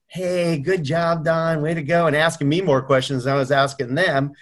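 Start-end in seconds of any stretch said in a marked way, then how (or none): 0.1-2.1 higher-pitched, lightly gushing praise; encouraging coach. Retold or imitated. Easygoing coach praising Don, encouraging. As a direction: imitate a coach cheering a client on. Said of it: "The coach I was working with was more".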